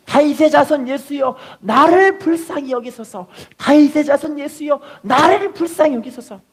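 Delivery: desperate, high-pitched plea; acted blind beggar's loud cry; crying out loudly. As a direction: call out for mercy, high and drawn out. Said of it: "엄청나게 크게 소리 지르니까".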